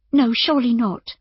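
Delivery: high, worried woman's voice; anxious. A narrator's reading. Innkeeper reacting to the doctor's ruin, anxious. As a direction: protest anxiously, pitched well up. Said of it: "she said anxiously".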